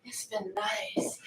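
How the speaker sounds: slow, breathy whispered sultry purr; Jessica Rabbit. Acted. Echoing her partner in a sultry cartoon siren voice. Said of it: "That was like Jessica Rabbit".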